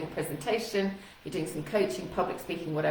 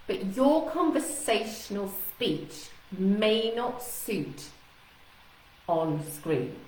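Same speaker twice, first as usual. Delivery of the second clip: measured, deliberate pace with pauses; slowed speech; slower than usual. Shown as a demonstration. Coach warns about conversational speed on screen, speaking slowly. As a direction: space the phrases out slowly. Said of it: "I'm really slowing my speech down".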